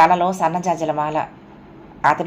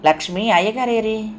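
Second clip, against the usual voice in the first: quick eager call, pitched up; eager question; 5 semitones higher than usual. Acted. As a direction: ask anxiously for her husband. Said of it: "ఆత్రంగా అడిగింది".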